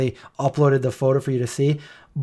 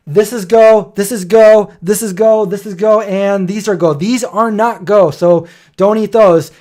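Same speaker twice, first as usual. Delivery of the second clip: mom's eager announcement; 5 semitones higher, 4 dB louder, slower than usual. Retold or imitated. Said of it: "my mom just comes over and she goes".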